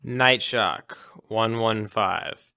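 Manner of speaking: deliberate, slow code read; slow spoken passcode. Pretend. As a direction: slowly spell out the code. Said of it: "and then spoke the code".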